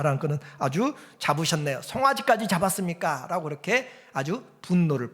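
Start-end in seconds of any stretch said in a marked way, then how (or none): 0.6-1.8 sarcastic. Retold or imitated. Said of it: "불만을 아주 비꼬면서 이야기하고". 1.8-3.3 sneering 송아지까지 with a falling end; bitter mock praise for the fatted calf; mocking sarcasm. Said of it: "불만을 아주 비꼬면서 이야기하고".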